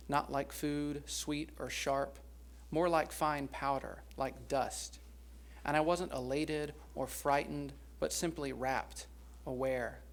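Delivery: slow, measured poem recital with pauses between lines; poetry reading. Acted. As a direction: read the poem slowly, lingering on each phrase. Reads a poem aloud.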